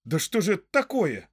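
high-pitched amazed question; astonished. A narrator's reading. Merry questions the local hobbit, astonished. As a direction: ask it in astonishment, pitch jumping up. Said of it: "изумился Мерри".

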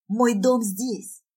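slow, insistent, strained cry; hoarse yelling. Acted. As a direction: insist desperately, drawing the words out. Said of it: "охрипшим голосом ору".

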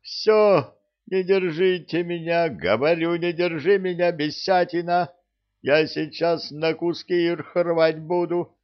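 high, shrill-pitched raging yell; furious outburst. A narrator's reading. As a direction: rage as if friends must hold you back. Ophelia raging, held back.

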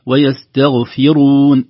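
"ويستغفرون" chanted slowly with a heavy ra; weight the ra in "ويستغفرون"; correct pronunciation. Shown as a demonstration. Teacher models the correct word, slow chant. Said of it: "لكن الصحيح أنها تكون".

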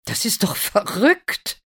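high, loud indignation; scolding. A narrator's reading. Mother objects to Lina trying the shoe, scolding. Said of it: "schimpft die Mutter".

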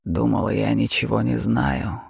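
a mocking beast purring at its prey; terrifying dragon. Dragon voice held.

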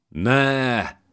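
high, drawn-out desperate yell; howled cry. A narrator's reading. Hero seeing the girl shut in the coffin, howling. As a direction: cry out "no" in anguish. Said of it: "üvöltötte".

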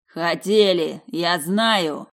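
loud insistent yell; angry snarl. Acted. Vadim to Alisa, loud angry retort. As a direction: throw it back, paranoid.

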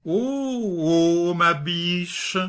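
tender voice. A narrator's reading. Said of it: "d'une voix attendrie".

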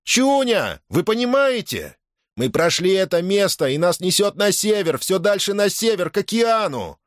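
high excited falsetto; ringing falsetto yell. A narrator's reading. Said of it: "звенящим фальцетом завопил". (звенящий фальцет, взволнованно)

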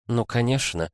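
с лёгким злорадством, протяжно; протяни злорадно, с ехидцей; злорадно протянуто. Acted. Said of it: "злорадно протянула та". (злорадно, нараспев)

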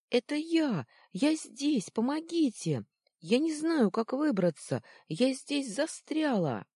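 high, loud desperate shout; crying for help. Acted. Trapped Luna shouting up to the hidden children for help. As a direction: call up to them as if trapped below. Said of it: "Луна закричала".

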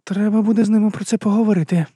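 lightly voiced woman, a mild mutter to herself. A narrator's reading. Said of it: "Оверс пробурмотіла". (жінка тихенько бурмоче)

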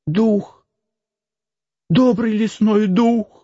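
high, slow frightened plea; pleading cry. Acted. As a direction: beg the forest spirit for help. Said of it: "вскричал Макс".

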